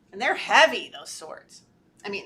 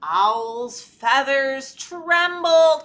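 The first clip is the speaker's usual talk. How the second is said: trembling; 8 dB louder, much slower than usual. A narrator's reading. Acting out Owl trembling.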